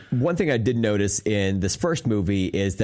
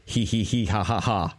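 breathy horror chant. Retold or imitated. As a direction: breathe it like the slasher sound effect. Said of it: "It was always like".

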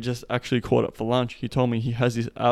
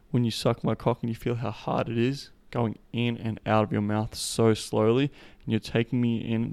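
slow seductive delivery. Shown as a demonstration. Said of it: "this is how I'd say it to a woman".

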